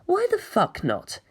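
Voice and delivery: put-on high, slow, fed-up girl; exasperated girl voice. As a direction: drag it out, exasperated. Kara's exasperated inner voice.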